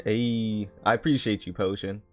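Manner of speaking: normal talking voice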